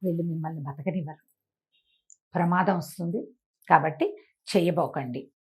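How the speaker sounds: low, soft secret warning; softly urgent plea to the master; hushed warning. Acted. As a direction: keep it down so the thieves don't hear. Disciple secretly warns guru.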